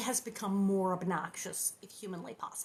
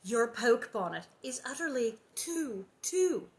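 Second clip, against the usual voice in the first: gushing. Acted. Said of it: "she said".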